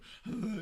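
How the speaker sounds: short mock tearful gasp; imitated sniffling. Showing how he teared up after the prank, mock sniffle. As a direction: act out tearing up a bit. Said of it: "I was just tearing up a bit".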